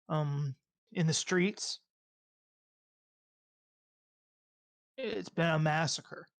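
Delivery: slow, halting scene narration; measured tabletop narration; game master's scene setting. Acted. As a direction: describe the scene slowly, with pauses.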